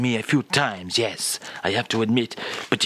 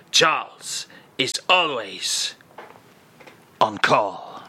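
catchphrase; slower than usual. Acted. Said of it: "Is that your new catchphrase?".

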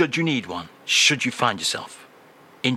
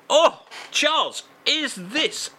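excited squeal; 13 semitones higher than usual. Acted. Host gets excited.

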